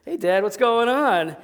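put-on high, drawn-out child's call; cheerful kid. Young son wanders onto the porch, high cheerful kid voice. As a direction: imitate an oblivious boy calling out.

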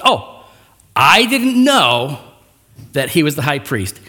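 drawn-out, slow "I didn't know" with a rising lilt; mock innocence. Paul faking ignorance to the bystanders, sly and slow. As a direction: play innocent, stretching out "know". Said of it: "here's what's happening".

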